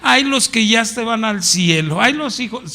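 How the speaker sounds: mocking. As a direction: drag out each "Ay" with scorn. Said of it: "se burla porque dicen".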